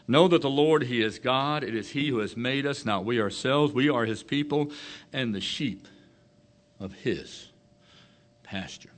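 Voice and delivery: a touch of pulpit proclaiming; measured pulpit reading; scripture reading. Acted. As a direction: read the verse out with weight. Reads third verse aloud.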